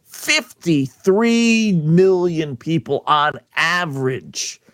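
"Fifty-three million" stretched out very slowly; slow, weighty stress on "Fifty-three million"; amazed emphasis. Real, not acted. Host marvels at huge audience figure.

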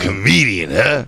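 put-on dismissive star voice; Chris Rock. Playing a star sizing up a comic, Chris Rock impression. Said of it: "pretend he's Chris Rock".

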